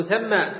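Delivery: ثم said "thamma", with fatha and doubled mim; a-vowel, doubled m. Shown as a demonstration. Teacher showing the spelling, ثم pronounced "thamma". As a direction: open ثم with "tha" and hold the m. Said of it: "فتح الثاء وتشديد الميم".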